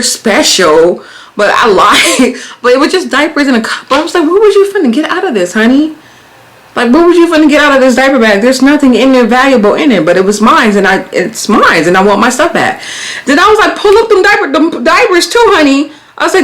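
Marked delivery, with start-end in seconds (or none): 4.2-12.8 sassy scolding. Retold or imitated. Scolding the thief. 13.8-15.9 sassy demand. Retold or imitated. Demanding the diapers back.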